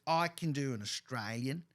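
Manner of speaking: put-on slow, drawn-out Australian accent. Father imitates his daughter showing off, slow Australian accent. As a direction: show off a broad Australian accent. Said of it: "she does a bloody good Australian".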